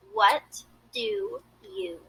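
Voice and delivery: "What do you?" drawn out, held t into do; slow teaching model; slow drawn demo. Shown as a demonstration. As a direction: spell it out slowly. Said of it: "To pronounce and understand this phrase".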